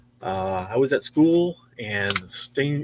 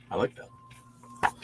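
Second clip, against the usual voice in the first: whispered aside; 6 semitones lower, 11 dB quieter, much slower than usual. Real, not acted. Admiring a cover aside.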